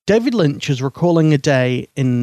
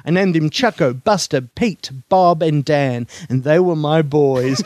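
David Lynch impression. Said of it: "let's see if I got a David Lynch".

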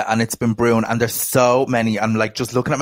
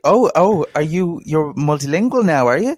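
mock impressed; 5 semitones higher than usual. Mocking reaction to pretentious coffee customer.

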